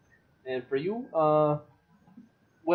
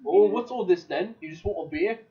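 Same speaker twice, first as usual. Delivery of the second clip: gruff barkeep; 7 semitones higher, 4 dB louder than usual. Acted. GM voices barkeep to player.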